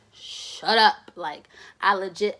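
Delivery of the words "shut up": hushed scolding. Retold or imitated. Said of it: "I'm like".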